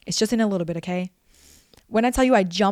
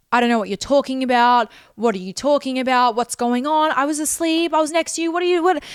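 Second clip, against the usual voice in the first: mock innocent denial; 3 semitones higher, 3 dB louder than usual. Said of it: "he said".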